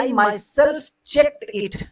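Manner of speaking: teacher demonstrating emphasis on myself; emphatic myself. Shown as a demonstration. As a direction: lean hard on myself. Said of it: "जोर दे रहा है".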